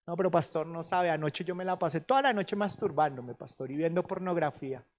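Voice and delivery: sheepish confession to the pastor; guilty congregant. Retold or imitated. Mimics a guilty church member. (feligrés avergonzado que le confiesa al pastor, en voz baja)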